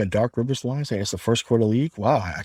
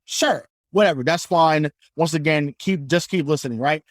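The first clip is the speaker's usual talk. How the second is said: excited rant; 4 semitones higher than usual. Real, not acted. Continues fired-up rant.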